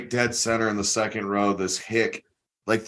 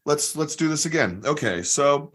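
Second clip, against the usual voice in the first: patient comedian; 3 semitones higher than usual. Retold or imitated. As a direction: talk a nervous volunteer through it kindly. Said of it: "So David Cross is like".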